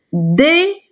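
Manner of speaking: "Déjeuner" as dé, jeu, né with pauses; syllable by syllable. Shown as a demonstration. Teacher dividing a word for pupils, "Déjeuner" syllable by syllable. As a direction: chop "Déjeuner" into three separate beats. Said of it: "Le mot déjeuner contient trois syllabes".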